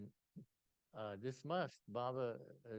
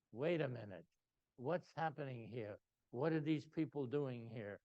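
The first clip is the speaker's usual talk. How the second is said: lightly voiced official, louder and demanding; Mister Authority; 3 semitones higher, 5 dB louder than usual. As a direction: imitate an official taking charge. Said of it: "was like Mister Authority".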